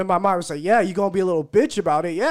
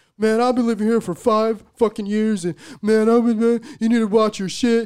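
mock yelling, higher pitch and louder; 4 semitones higher, 4 dB louder than usual. Retelling how the man whose door he knocked on yelled at him, retelling a yell. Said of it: "And he's yelling at me".

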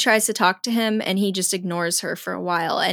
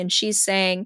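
ordinary talk, nothing marked

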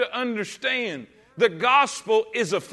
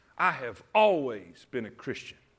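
play-acted haughty tone, very low, soft and arrogant; 10 semitones lower, 5 dB quieter than usual. Quoting a woman in her seventies at this church, in a mock-arrogant tone. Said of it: "in the most arrogant tone".

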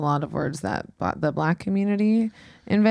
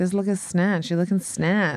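usual speaking voice

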